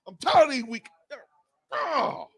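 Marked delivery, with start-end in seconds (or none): 1.7-2.3 high, softer wailed "oh"; exasperated cry. Real, not acted. Fan fed up with a flag, exasperated cry. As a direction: cry out in frustration.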